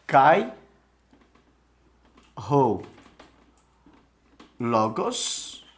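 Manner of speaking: Kai, ho, logos, each word said alone with long pauses; slow Greek dictation. Shown as a demonstration. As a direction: read Kai ho logos one word at a time, slowly, for students. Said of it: "Então, vamos lá".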